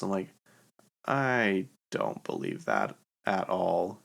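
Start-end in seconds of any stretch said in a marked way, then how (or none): 1.1-4.0 slow, drawn-out disbelief; skeptical. Retold or imitated. Answering a claim about house-flipping money, skeptical. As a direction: stretch it out, doubting every bit. Retorts to a claim she disputes.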